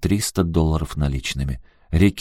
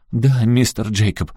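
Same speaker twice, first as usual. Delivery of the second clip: politely; 4 semitones higher than usual. Acted. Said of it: "вежливо добавила Саманта".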